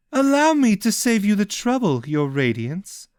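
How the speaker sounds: smug, mildly mocking offer; cloaked figure. Cloaked figure speaks to Ishel.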